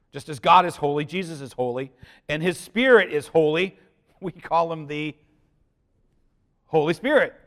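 usual speaking voice

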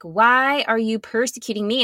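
mock-loud challenge; loud voice from above. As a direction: call it out loudly, quoting the voice. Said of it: "loudly is like".

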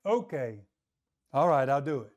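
low, resigned agreement; acting out grudging surrender; humbled, reluctant consent. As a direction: give in with pauses, pitch dropped. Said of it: "He bows himself, so to speak, in his heart".

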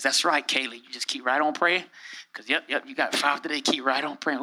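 lightly voiced low, quiet encouragement; a hint of a hushed, indulgent coach; mock approving God. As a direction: murmur mock approval like a scorekeeper. Voicing God tallying repeated prayers.

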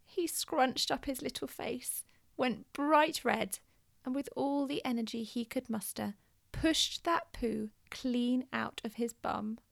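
soft, slow hushed telling. Acted. Telling the climax of the potty story, hushed. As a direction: drop to a near whisper for suspense. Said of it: "dramatic hushed narration".

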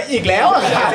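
อีกแล้ว pitched high through laughter; laughing stress on อีกแล้ว. Retold or imitated. Host replays the colleague's punchline, stressing อีกแล้ว with laughter. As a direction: lean on อีกแล้ว while laughing. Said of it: "กูติดใจตรงคำว่า".

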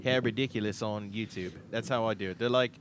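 put-on Australian accent; Aussie accent. Host explaining how he practises, Aussie accent. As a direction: chat away as an Aussie. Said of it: "brush up on my Aussie accents".

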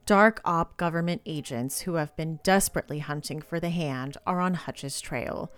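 dramatic thriller synopsis narration; book blurb read. Acted. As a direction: punch the openings of phrases, let the ends fall.

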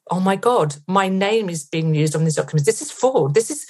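mild retold panic, rising in pitch; retold alarm. Herself realising her name is used on documents, mildly alarmed. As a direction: recount the shock with growing alarm.

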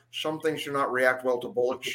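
lightly voiced imitation of a Scottish film star; Sean Connery. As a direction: quote it with a hint of a Scottish movie-star accent. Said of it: "Sean Connery delivering the awesome line".

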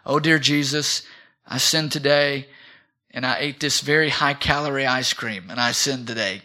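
subdued, lightly acted penitent prayer; a touch of sheepish praying; mock confession. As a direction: confess small sins in mock contrition. Acts out a trivial confession prayer.

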